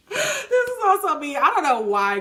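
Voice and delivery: choked up, touched; tearful. Real, not acted. Moved by another matching card.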